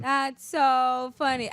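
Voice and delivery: slow, unamused "That's so funny"; deadpan imitation. Mocking Julie, who never laughs, with a slow deadpan reading. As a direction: say it with zero amusement, drawn out. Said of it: "she was just like".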